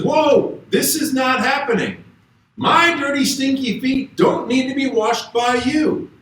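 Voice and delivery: a hint of Peter recoiling in disbelief; Peter protesting.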